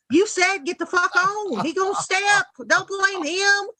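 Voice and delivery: high sassy scolding of a friend; sassy girlfriend lecture. Retold or imitated. To a friend who sent the text, high sassy scolding. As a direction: talk sense into her, sass high.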